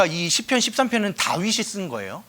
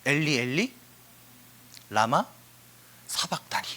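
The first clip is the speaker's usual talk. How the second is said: dying cry; 5 semitones lower, 5 dB quieter than usual. Acted. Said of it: "뭐라고 말씀하셨죠".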